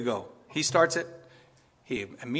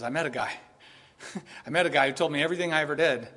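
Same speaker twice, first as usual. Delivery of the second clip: excited news; faster than usual. Retold or imitated. Woman's excited report in town.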